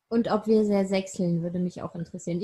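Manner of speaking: tipsy slurred words. Real, not acted. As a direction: slur after a few drinks. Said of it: "Ich lalle grad, ich habe getrunken".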